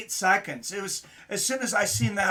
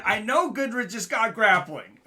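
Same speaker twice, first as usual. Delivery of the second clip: laughing; 5 semitones higher, 6 dB louder than usual. Retold or imitated. Laughing retelling his own thought.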